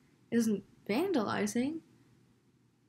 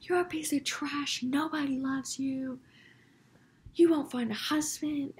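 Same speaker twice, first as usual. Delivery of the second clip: higher-pitched retold rant, not full volume; mock yell in a raised pitch; 4 semitones higher than usual. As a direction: imitate an old lady telling someone off. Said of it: "she's yelling at me".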